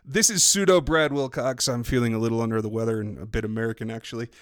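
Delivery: put-on shaky stab at a Geordie accent; put-on Geordie slipping into American; attempted Geordie accent. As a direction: have a go at Geordie, badly. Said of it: "was that your best Geordie accent?".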